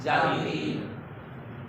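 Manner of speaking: whispered slow "जावीद"; hushed teacher modelling "जावीद"; whispered model word. Shown as a demonstration. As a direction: breathe "जावीद" softly and slowly. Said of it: "असल लफ्ज़ क्या है".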